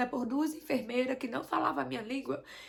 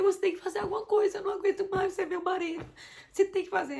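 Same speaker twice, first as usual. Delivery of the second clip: retold demand, louder and higher, at the end of her rope; stressed demand; 6 semitones higher, 4 dB louder than usual. Wife demanding husband do something, stressed and louder. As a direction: push him hard to act, exasperated. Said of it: "eu me estressei com o Emil".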